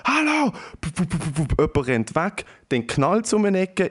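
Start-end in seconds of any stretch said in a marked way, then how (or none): 0.0-0.5 high-pitched mock cry for attention; retold shouting, pitched way up; imitated woman's scream. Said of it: "höre ich eine Frau schreien". 0.8-1.6 mimicked scurrying feet; imitated footsteps. Imitates footsteps running away.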